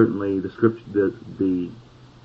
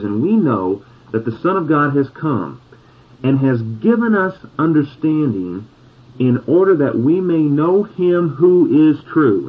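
slow reading; 5 semitones higher than usual. Shown as a demonstration. Preacher reading the verse slowly aloud with the congregation, deliberate pace. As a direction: read every word slowly, so they can follow along. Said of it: "Read it with me again slowly".

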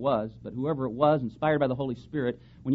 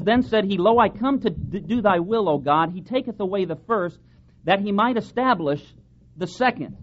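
raised, solemn reading of the verse; scripture reading; 6 semitones higher, 6 dB louder than usual. Acted. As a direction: read the verse out like a pulpit proclamation. Preacher reads verse nine aloud.

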